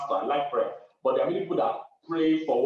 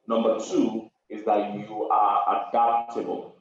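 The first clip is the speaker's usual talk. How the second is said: preaching emphasis; 4 dB louder, slower than usual. Acted. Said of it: "preaching emphasis".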